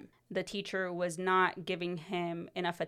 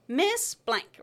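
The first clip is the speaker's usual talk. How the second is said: higher-pitched call to the teacher; retold hail across the class; 8 semitones higher, 4 dB louder than usual. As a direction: pipe up to get the teacher's attention.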